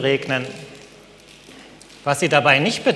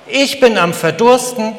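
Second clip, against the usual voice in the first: louder and higher, crying it out; frustrated yell; 5 semitones higher, 5 dB louder than usual. A narrator's reading. Sunflower yelling her despair into the rain. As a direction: yell the complaint at the sky. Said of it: "schrie die Sonnenblume".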